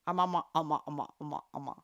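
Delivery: laughing through silly syllables; playful laughing babble that fades; giggling. Real, not acted. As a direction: giggle out the syllables, fading away. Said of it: "I'm still laughing".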